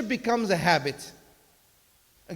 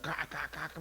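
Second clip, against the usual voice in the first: parrot squawking; 5 semitones lower, 10 dB quieter than usual. Retold or imitated. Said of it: "making noise until he died".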